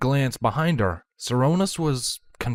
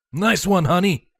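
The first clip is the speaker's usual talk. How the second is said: higher, cheering call to his wife; shouted up; 9 semitones higher, 4 dB louder than usual. Acted. Shining Armor calls up to his wife, a mild cheer. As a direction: cheer her on from below. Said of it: "shouted up to his wife".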